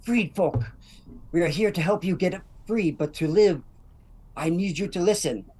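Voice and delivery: loud, rousing call to the freed slaves; rallying speech in character. Acted. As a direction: urge them to listen and pretend to work, slowly. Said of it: "So I go".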